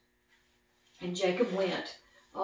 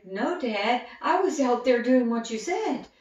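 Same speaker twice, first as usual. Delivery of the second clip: protesting son; 5 semitones higher, 7 dB louder than usual. Acted. Esau protests to father.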